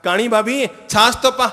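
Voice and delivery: loud, high mocking call; taunting brother-in-law. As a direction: jeer at her like a rude young man. देवर दोहराता है. (चिढ़ाता हुआ देवर, ऊँची आवाज़ में)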